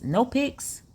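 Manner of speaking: a high, puzzled "No pics?"; surprised. Real, not acted. Reading his text, she asks it back high and puzzled.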